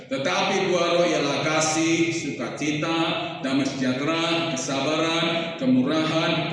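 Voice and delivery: slow, measured recital of a list; scripture reading. Acted. Preacher reads Galatia to the congregation, slow scripture reading. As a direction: read it out slowly, item by item. Reads a Bible verse aloud.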